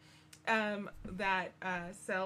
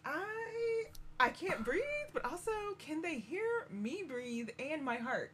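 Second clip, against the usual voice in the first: higher, strained imitation of panic; mock panic; 7 semitones higher, slower than usual. Hiding girl fears being heard breathing, mock panic. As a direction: play at being too scared to breathe.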